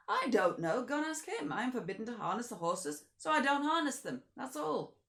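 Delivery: high, loud, fast and defiant coachman; stubborn, hands-off retort. Acted. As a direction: driver refusing responsibility to the Count, high and loud. Driver shrugs off the Count.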